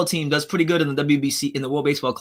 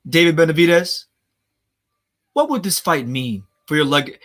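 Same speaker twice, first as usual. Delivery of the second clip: Brian Custer impression. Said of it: "he takes these long dramatic pauses".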